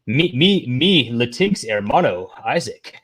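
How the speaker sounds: silly mock address, slowing down; exaggerated mock talk. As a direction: parody someone's affected way of addressing a friend. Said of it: "I don't, I don't say".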